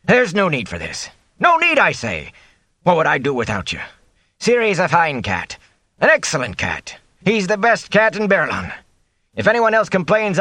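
high, pleading, rising to a cry; begging the cook not to leave, voice climbing; desperate innkeeper. Acted. Innkeeper desperately pleading with the cook to stay.

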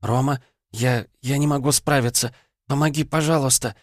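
put-on a frightened young woman begging for help; panicked girl's voice. A narrator's reading. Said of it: "раздался тихий женский голос".

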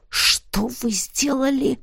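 drawn-out incredulous growl. A narrator's reading. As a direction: growl it out word by word. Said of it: "прорычал он".

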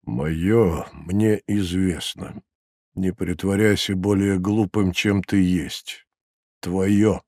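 soft, slow, restrained rebuke; said quietly. A narrator's reading. Procurator questioning the prisoner, quiet and measured. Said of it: "Прокуратор сказал негромко".

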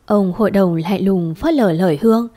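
ordinary delivery, nothing marked

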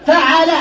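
فعل said slowly as fa-ʕa-la; drawn-out فعل, fa-ʕa-la; fatha on the middle letter. Shown as a demonstration. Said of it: "بالحركات الثلاث والسكون".

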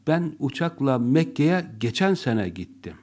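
geçen sene stressed before gittim. Shown as a demonstration. Teacher showing the class stress on geçen sene. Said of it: "Başka ne kaldı? Geçen sene".

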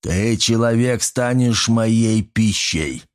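slow growled threat; a hint of a growling orc. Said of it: "оскалился и прорычал".

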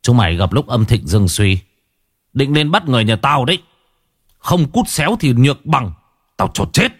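an exorcist threatening the shadow ghosts at the gate, cold. Acted. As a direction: warn off the spirits, icy and menacing. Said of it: "Tôi lạnh giọng".

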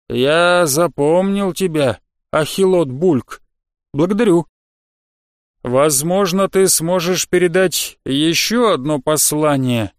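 slow, deliberate creature voice; slug creature voice. Acted. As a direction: weigh each word like an old slug. Slug character voiced slowly.

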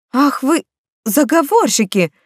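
a light exclamation, half laughing at them; exclaiming. Acted. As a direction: playfully scold the schemers. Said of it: "воскликнула я".

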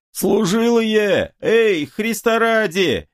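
high, slow, desperate wail; frantic hoarse cry. Acted. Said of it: "истошным голосом хрипит поп". (поп истошным голосом хрипит, умоляя стрельцов)

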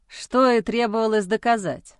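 contemptuous smirk. Acted. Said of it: "усмехнулся муж презрительно".

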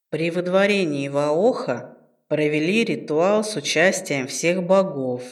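low, slow patient ghost; old ghost voice. Acted. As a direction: explain slowly like an old spirit. Ghost ancestor explains. (старый призрак, неспешно)

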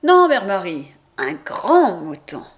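correcting an order, GRAND punched loud; hasty self-correction. Acted. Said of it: "Je tâche de réparer ma bévue en disant".

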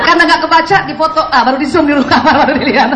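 talking through laughter; chuckling through the story; laughing. Real, not acted. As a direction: laugh while telling it. Laughing at the wives' snooping.

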